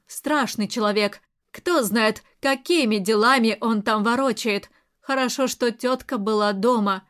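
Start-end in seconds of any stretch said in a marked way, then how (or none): none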